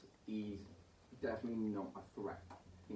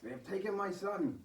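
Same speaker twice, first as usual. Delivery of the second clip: high, pleading lament; grief-stricken old priest; grieving priest; 12 semitones higher, 4 dB louder than usual. Acted. Priest voiced by GM.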